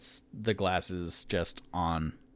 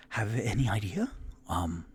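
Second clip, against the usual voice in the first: whisper. Acted. Whispered aside in character.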